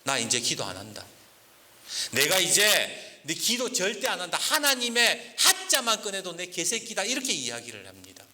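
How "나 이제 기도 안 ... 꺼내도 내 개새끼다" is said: bitter angry vow. Retold or imitated. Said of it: "얼마나 하나님한테 분노하고 실망했는지".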